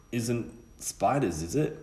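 slow, high, frightened plea; panicky fear. Acted. Bully Nick dreading the spiders in the cellar, slow scared voice. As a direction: dread creeping into each word. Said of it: "Nick felt something beginning to panic".

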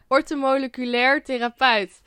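"Orthomoleculair therapeut" carefully pronounced, syllable by syllable; careful pronunciation. Real, not acted. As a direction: get every syllable of "Orthomoleculair therapeut" right. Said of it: "zorgen dat ik het goed uitspreek". ("Orthomoleculair therapeut" zorgvuldig uitgesproken)

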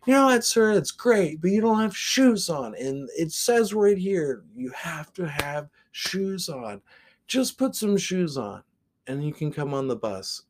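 high, strained by-the-book politeness; mock polite driver. Bus driver lecturing the shoeless man, high and prim.

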